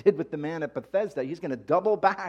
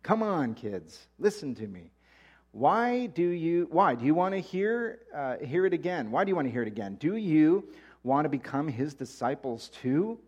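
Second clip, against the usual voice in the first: exasperated; 3 semitones higher than usual. Acted. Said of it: "Sounds like me".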